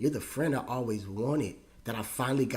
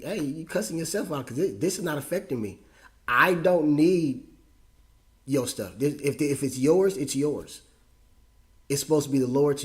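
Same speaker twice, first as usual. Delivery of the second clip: heated argument; 3 semitones higher, 5 dB louder than usual. Retold or imitated. Retold heated argument with father.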